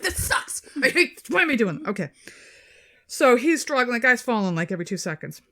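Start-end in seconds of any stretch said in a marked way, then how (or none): 0.0-1.9 whiny complaint. Pretend. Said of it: "I'd be like".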